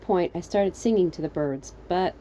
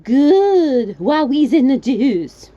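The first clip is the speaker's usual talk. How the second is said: put-on high foreign-accented shout, drawn out; adamant, assertive; 7 semitones higher, 11 dB louder, much slower than usual. Stranger replying down the well, adamant shout. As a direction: bellow it as an order. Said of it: "more adamant and assertive".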